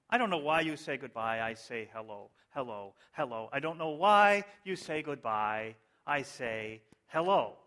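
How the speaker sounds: mock-moved lyric recital. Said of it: "I hope you're as moved by these".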